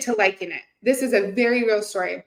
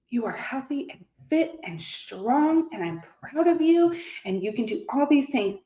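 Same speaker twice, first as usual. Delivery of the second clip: self-affirmation; 3 semitones higher, 3 dB quieter than usual. Retold or imitated. Talking to herself in the mirror, encouraging affirmation. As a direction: affirm yourself with measured conviction. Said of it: "I started to say".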